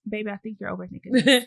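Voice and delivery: gently imitating a calm partner. Wife gently calling out speaker's overthinking, calm. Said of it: "she said it so calm".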